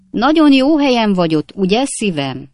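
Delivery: high, loud sugary call; a domineering wife sweetening her call; calling sweetly. A narrator's reading. Wife calling across to her husband, high sugary call.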